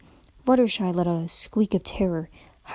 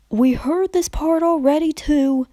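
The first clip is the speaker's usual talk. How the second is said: higher, louder impatient cut-in; cutting off; 6 semitones higher, 5 dB louder than usual. A narrator's reading. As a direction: cut her off, fed up. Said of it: "cutting Pinkie off".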